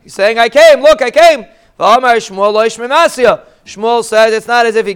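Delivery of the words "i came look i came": higher, louder retold shout; mock yelling. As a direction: play the desperate husband yelling he made it. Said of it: "He's yelling and screaming".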